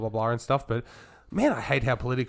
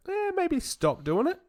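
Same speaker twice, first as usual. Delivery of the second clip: sarcastic; slower than usual. Real, not acted. Sarcastic obvious advice.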